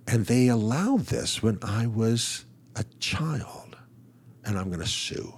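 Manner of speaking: breathy whisper, mostly voiceless; hushed and bitter, like a secret vow; whispered threat. Retold or imitated. Quoting a regretful young woman.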